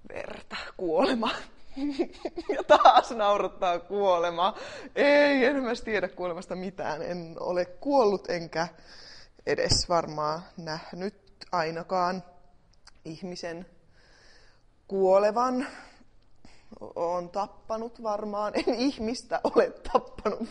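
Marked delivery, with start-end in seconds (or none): 1.3-2.5 a sudden high giggle; high burst of laughter. Real, not acted. Laughing about death. 18.5-20.5 denying it through a laugh. Real, not acted. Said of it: "ei voi nauraa näin".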